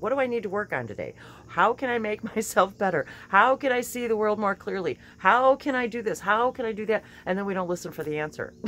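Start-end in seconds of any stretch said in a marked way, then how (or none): 0.0-7.0 rising, louder eager questions; eager questioning. Pretend. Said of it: "To ask".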